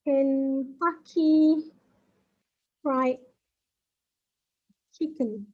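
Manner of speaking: Kentucky Fried Chicken drawn out with long gaps; very slow, word by word. Shown as a demonstration. Teacher spelling out what KFC stands for, very slowly. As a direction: leave space after each word. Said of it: "First letter for each word".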